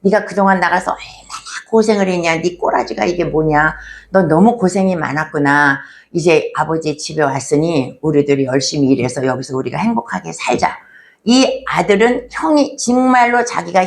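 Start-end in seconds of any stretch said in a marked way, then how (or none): 0.0-10.8 a loving elder brother welcoming his younger brother home, tender; welcoming older brother. Pretend. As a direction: take the lost brother in kindly. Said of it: "우리가 이렇게 말해야 된다".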